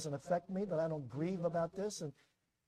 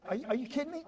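incredulous; 8 semitones higher, much faster than usual. Retold or imitated. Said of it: "So I said".

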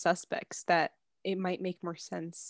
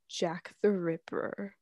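scary voice; 3 semitones lower, 4 dB quieter, much slower than usual. Acted. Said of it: "I meant to sound scary".

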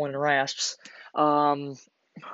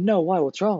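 higher, louder retold protest; baffled innocence; 6 semitones higher, 3 dB louder than usual. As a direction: imitate a clueless rookie asking what went wrong. Retold baffled reply to angry sergeant.

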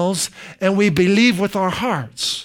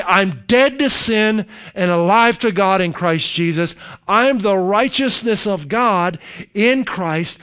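firm declaration. Shown as a demonstration. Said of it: "Make yourself say".

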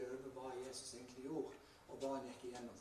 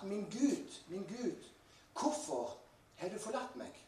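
higher, slightly raised voice, drawn-out ending; acted anguished cry; 7 semitones higher, 5 dB louder, slower than usual. Preacher voices Jesus forsaken by God on the cross, raised anguished cry. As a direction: call out a retold lament, higher and slower at the end.

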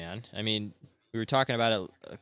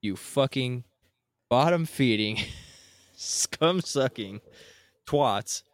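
much higher and louder, slow, yelled insults; furious shout; 5 semitones higher, 6 dB louder, much slower than usual. Real, not acted. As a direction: shout it straight at the cheaters. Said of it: "And I say".

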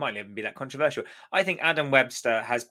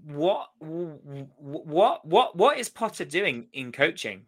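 cross; 4 semitones higher, slower than usual. Real, not acted. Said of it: "I'm getting really cross".

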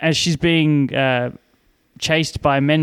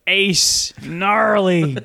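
surfer dude voice; 2 semitones higher, slower than usual. Pretend.

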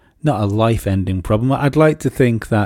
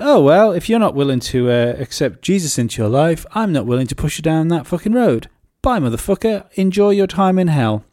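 nonchalant dismissal; 6 semitones higher than usual. Retold or imitated. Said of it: "the nonchalant sort of".

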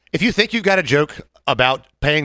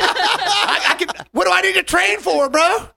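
much higher voice through laughter; laughing; slower than usual. Real, not acted. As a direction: talk while cracking up, high. Laughing while speaking.

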